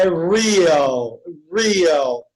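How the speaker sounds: "real" drawn out as RI-al; slow English "real" with a long "ee"; English pronunciation. Shown as a demonstration. Teacher modelling the next cognate, drawn-out English "real". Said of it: "Muda a fonética".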